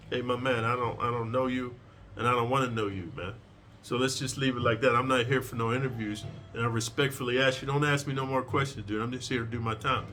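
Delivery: low, even and respectful; calm respectful refusal. Shown as a demonstration. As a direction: shut him down politely but firmly. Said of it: "So you just say this".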